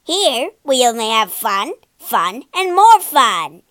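excited cry. Acted. Jack-in-the-box invites Pinocchio to play, gleeful loud cry. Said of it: "cried a jack-in-the-box".

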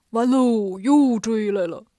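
slow, drawn-out dismay in a loud voice; doom-laden Bajie moan; dismayed groaning. Acted. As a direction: wail that all is lost, dragging the words. Bajie despairs as pursuer returns.

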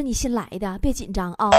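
low, gentle comforting aside; reassuring. Acted. Patient to nurse with shaking hands, reassuring. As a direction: soothe a nervous beginner. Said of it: "我就安慰她".

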